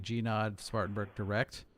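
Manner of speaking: demo clearance read. Shown as a demonstration. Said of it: "if you say".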